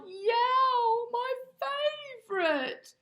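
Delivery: high, loud howling cry; dog howl stretching slowly into delight. Acted. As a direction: howl it out like a hungry dog, drawn out. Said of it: "Bob howled".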